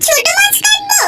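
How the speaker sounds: shouted, half-laughing indignant refusal; outraged shouting wife. Acted. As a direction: yell it back at him in disbelief, then a flat no. Wife outraged at cooking demand. (রাগে চিৎকার করে প্রত্যাখ্যান)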